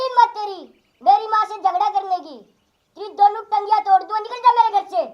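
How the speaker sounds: loud, fast furious yelling; husband yelling at his new wife; angry threat. Acted. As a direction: throw her out in a rage.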